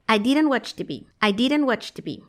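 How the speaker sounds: "didn't" said as "diden", no final T; silent T. Shown as a demonstration. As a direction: drop the last T of "didn't". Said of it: "esa T que está después del apóstrofo no se pronuncia".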